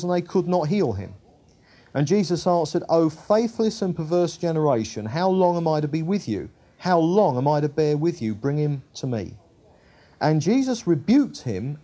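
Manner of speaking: measured, emphatic Bible reading; preacher reading scripture in lifted phrases. Acted. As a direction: read the Gospel out clearly to a congregation. Reads scripture aloud.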